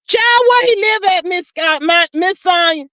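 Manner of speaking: shocked outburst; incredulous. Real, not acted. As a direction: yelp it out like you can't believe it. Incredulous question to chat.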